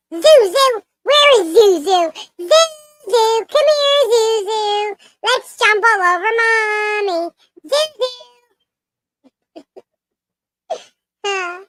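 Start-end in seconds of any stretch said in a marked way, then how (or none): 0.1-8.1 calling a pet. Real, not acted.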